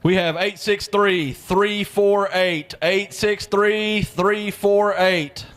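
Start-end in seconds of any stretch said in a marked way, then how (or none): 0.4-2.7 deliberate slow readout of raffle digits; slow number call. Real, not acted. 2.8-5.5 digits repeated even slower; slow repeated number. Real, not acted.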